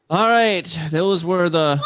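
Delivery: big hosting shout, voice jumps up; loud announcer call. Acted. Host wraps up the weekly tweets with a loud call. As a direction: belt out the segment wrap like a host.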